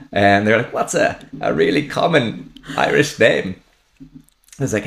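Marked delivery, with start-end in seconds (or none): 0.7-3.6 comic German soldier asking; put-on German accent. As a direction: ask it in German-accented English. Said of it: "German accent in English very well".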